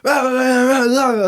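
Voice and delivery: high gibberish mock rant; imitated angry ranting. Man at media event ranting, mock gibberish. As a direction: parody a stranger ranting at you. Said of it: "he was like".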